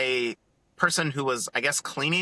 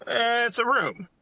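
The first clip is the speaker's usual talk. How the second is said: bored son; 9 semitones higher than usual. Retold or imitated. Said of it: "He was like".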